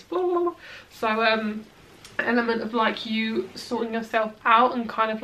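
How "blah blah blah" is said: high-pitched babbled blah-blah; quick nonsense noise, pitched up; jumbled babble. Shown as a demonstration. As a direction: babble it to mimic a muddle. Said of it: "It's gonna be like this".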